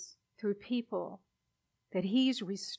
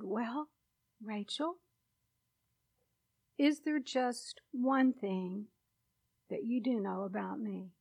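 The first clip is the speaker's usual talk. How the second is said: compassionate. Retold or imitated. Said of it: "very compassionately spoken".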